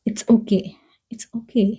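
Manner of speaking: hushed reassuring whisper; gentle reassurance. Shown as a demonstration. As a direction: whisper it gently to calm them.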